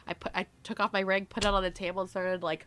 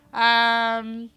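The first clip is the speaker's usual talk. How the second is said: retold panic; 4 semitones higher, 9 dB louder, much slower than usual. Retold panic over lost ring.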